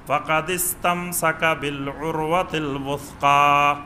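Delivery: slow recited Arabic; chanted verse; Quran recitation. Acted. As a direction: recite it slowly, melodic.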